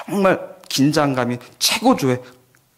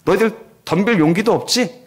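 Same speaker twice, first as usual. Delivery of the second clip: mocking; 3 semitones higher than usual. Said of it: "하면서 조롱하면서".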